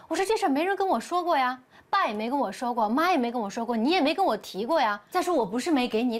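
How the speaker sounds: agitated protest. Acted. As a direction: pile up the complaints, insisting she wasn't told. Wife defends herself in quarrel.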